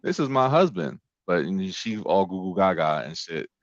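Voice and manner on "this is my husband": mock offended husband. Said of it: "'Cause, like".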